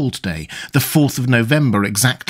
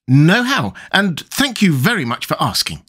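put-on high, childish fat boy voice; a boyish Tweedledum, piping and smug; Tweedledum's voice; 5 semitones higher than usual. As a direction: play a pompous little schoolboy. Tweedledum answers.

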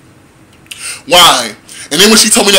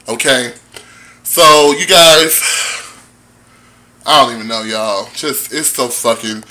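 resigned fading; 5 semitones lower than usual. Real, not acted. Rant winding down, resigned.

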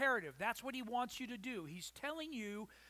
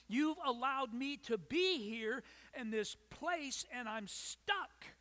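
frustrated Paul; 3 semitones higher, 4 dB louder than usual. Acted. Paul's imagined frustrated cry in prison.

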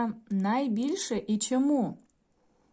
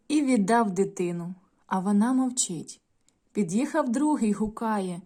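put-on storytelling voice for young pupils; story narration; 3 semitones higher than usual. A narrator's reading. Teacher reading a folk tale to the class, gently. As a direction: read the tale aloud to children.

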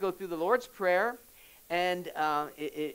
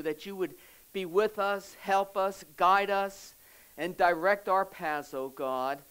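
closing prayer; 2 semitones lower than usual. Acted. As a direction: pray over the congregation, steady and sincere. Pastor leads closing prayer.

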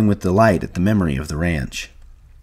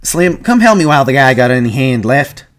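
higher, louder call for help; raised-voice alarm; urgent shout; 5 semitones higher, 6 dB louder than usual. A narrator's reading. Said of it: "George shouted over and over".

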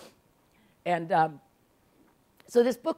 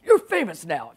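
lightly voiced blustering old bear; a hint of a blustering author; Pat Conroy; 2 semitones lower, 4 dB louder than usual. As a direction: imitate a friend's swooping pronouncement. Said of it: "This is how he talks".

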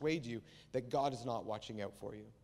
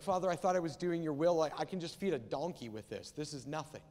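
mock complaint. Imagined Jesus protests to the Father, mock complaint. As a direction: protest it, then drop away dismissively. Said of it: "that sense of loss and complaint".

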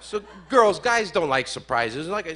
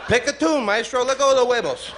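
hammed-up squeaky plea to the doctor; mock testicles' voice; 6 semitones higher than usual. Balls beg the doctor to let go, high and pleading.

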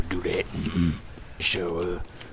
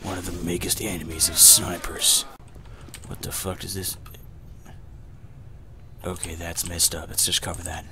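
a hammed-up announcer persona addressing the folks; put-on commentator voice. Gamer narrating to his viewers in a put-on voice. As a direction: play a mock commentator narrating his match. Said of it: "I cannot talk like this anymore".

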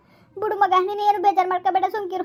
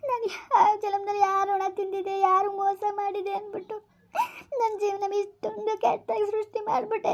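crying alone; 4 semitones higher than usual. Acted. ಯಾಕ್ ಅಳ್ತಾ ಇದೀ?.

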